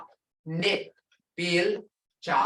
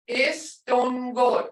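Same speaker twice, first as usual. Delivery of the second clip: "Istungo" very slow, a little raised; tones demonstrated; 4 semitones higher, much slower than usual. Shown as a demonstration. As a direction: draw out "Istungo" so its tones are heard. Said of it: "Hear those tones?".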